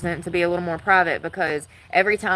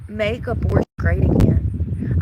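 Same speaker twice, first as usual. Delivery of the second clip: slow, louder mocking read; mocking slogan; 6 dB louder, slower than usual. Reading the protest sign aloud with a mocking tone. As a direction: sneer the slogan back at them.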